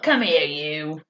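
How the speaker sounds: lightly imitated chef's summons; drawn-in, understated impression of a boss; Gordon's summons. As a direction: summon someone with a hint of a stern chef. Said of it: "You know how he does that?".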